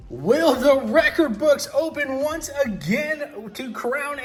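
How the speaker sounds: hyped live race call; excited race-day commentator; race commentary. Acted. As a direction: call the race like a track announcer. Toy truck race play-by-play.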